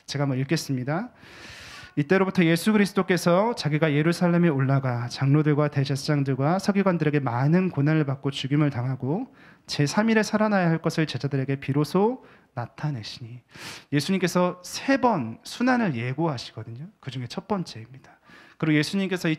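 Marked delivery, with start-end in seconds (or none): 2.0-13.4 measured, formal Bible reading; formal scripture reading aloud. Acted. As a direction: read the verse to the congregation. Pastor reads scripture aloud.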